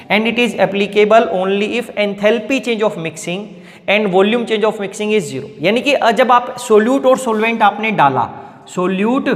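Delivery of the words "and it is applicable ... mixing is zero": very slow, phrase by phrase; slow dictation. Shown as a demonstration. Teacher dictating the first limitation to students, slow. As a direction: spell out each word for notes.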